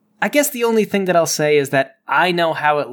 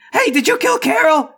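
high, odd-voiced call across the deck; Thomas calling to Preston; 12 semitones higher, 4 dB louder than usual. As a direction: pitch it up and call over to Preston. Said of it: "He turns to Preston and he says".

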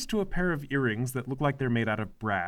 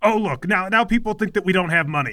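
a hint of a bossy, whiny mother; lightly voiced overbearing mom; nagging mother; 4 semitones higher, 5 dB louder than usual. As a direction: play the domineering mother scolding her son. Mother complains to Galahad.

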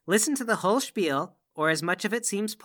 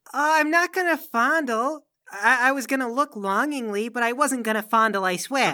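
higher-pitched, stammering denial; protesting innocence; 3 semitones higher, 3 dB louder than usual. Acted. Guest denies wanting to fondle the weapons, protesting high.

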